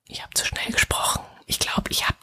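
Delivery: soft, voiceless whisper; whispered aside. Real, not acted. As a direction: whisper it as if only to yourself. Geflüsterte Bemerkung über eigenes Tempo. (geflüstert, wie zu sich selbst)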